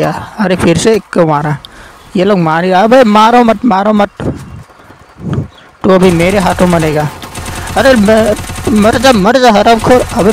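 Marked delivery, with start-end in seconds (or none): 2.7-4.2 pleading yell. Real, not acted. Begging teammate not to kill. 7.8-10.1 excited game yell. Real, not acted. Shooting at enemy.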